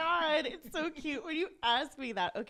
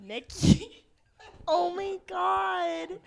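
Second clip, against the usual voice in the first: laughing disbelief; 7 semitones higher, 8 dB louder than usual. Real, not acted. Mocking the odd word.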